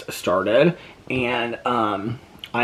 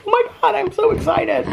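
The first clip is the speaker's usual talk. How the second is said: retold excitement; 3 dB louder than usual. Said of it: "and I was like".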